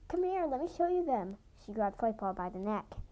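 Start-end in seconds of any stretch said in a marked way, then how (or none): 0.1-1.4 higher, bright eager invitation. Acted. Littermate eagerly inviting Flightpaw to see kits. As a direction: pull her along eagerly.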